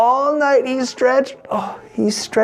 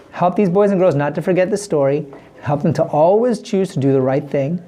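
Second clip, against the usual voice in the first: prayer. Acted. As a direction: pray gently for the children. Prayer after the story.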